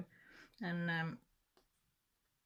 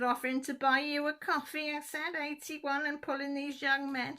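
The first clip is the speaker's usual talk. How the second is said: playful tease; 10 semitones higher, 8 dB louder than usual. Retold or imitated. Teasing aunt about the man.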